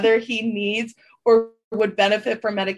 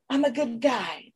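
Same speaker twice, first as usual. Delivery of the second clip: mock innocent Tom; 4 dB quieter than usual. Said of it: "Kim, I know you".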